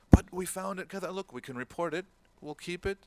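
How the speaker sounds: high, loud protest at the start, then insisting; arguing brother. Retold or imitated. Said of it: "People were arguing".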